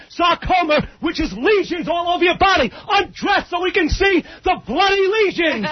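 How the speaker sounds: shouting. Real, not acted. Caller shouting insults.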